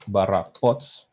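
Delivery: slow, word-by-word dictation. Real, not acted. Presenter types the API path live, slow dictation. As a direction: spell out the path slowly while typing. Dictating a URL while typing.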